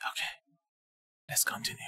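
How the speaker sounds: hushed unvoiced whisper. Real, not acted. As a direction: keep whispering softly. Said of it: "I have to whisper now".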